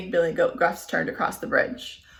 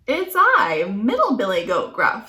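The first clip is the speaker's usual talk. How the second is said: middle goat voice; 4 dB louder than usual. Acted.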